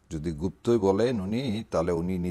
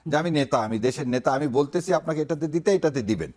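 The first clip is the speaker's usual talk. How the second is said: bold leader impression; 4 semitones higher than usual. Imitating the leader ordering voters, lightly commanding. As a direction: give the order like a party chief. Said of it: "একটা স্ট্রংনেস, একটা boldness".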